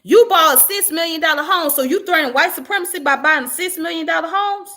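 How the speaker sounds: indignant. Real, not acted. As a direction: throw her logic back at her. Mocking the activist's claim.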